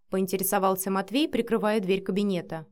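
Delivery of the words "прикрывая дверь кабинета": plain reading voice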